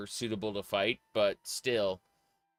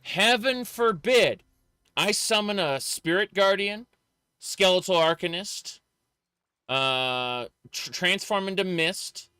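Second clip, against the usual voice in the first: rising, louder outrage; building mock outrage; exasperated rant; 6 semitones higher, 5 dB louder than usual. Real, not acted. Ranting about in-game crime rules.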